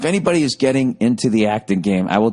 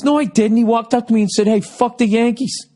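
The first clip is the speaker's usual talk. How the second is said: higher, indignant drunk-friend imitation; mock drunk denial; 11 semitones higher than usual. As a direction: play the defensive drunk buddy, pitched up. Drunk friend denies starting fight.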